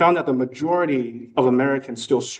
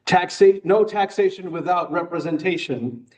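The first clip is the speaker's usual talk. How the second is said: retold shout; 5 semitones higher than usual. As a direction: imitate a classmate calling out in mock debate. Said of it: "one of my classmates shouted to me".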